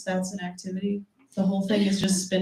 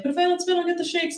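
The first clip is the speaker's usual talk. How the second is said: higher kid voice, mock addict; little girl voice; 8 semitones higher, faster than usual. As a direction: plead like a child in withdrawal. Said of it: "She's like".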